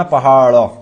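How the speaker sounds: पहाड़ ending in a clearly sounded ड़; flapped final ड़. Shown as a demonstration. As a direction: say पहाड़ with an added open vowel after the flap. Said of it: "ड़ आया ना".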